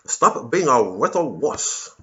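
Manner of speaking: hammed-up communist scolding, drawn out slow. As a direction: sneer it like a lightly voiced Soviet commissar. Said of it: "that voice 'cause it's a communist voice".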